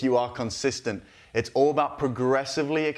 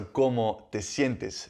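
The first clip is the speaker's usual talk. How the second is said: slow model line; much slower than usual. Shown as a demonstration.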